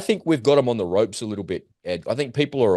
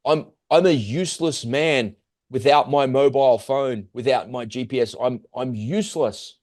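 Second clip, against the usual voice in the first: pleading father; 3 semitones higher than usual. Retold or imitated. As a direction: lightly act a father begging for medicine. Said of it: "I'm pleading with you".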